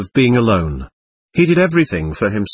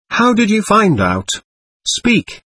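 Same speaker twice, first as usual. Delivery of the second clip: frenzied demand; 9 semitones higher than usual. Acted. Ivan in a frenzy demands answers.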